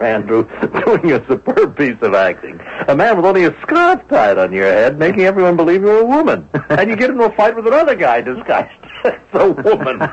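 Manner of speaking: chuckling while telling it; laughing through words. Real, not acted. Friend recalling the disguise fight, laughing. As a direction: let laughter break into the words.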